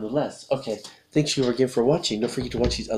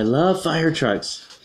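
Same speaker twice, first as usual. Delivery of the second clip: slow, drawn-out exclamation; mildly excited, stretch it out; 6 semitones higher, much slower than usual. Acted. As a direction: exclaim it slowly, with mild delight. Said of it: "exclaims Elliot".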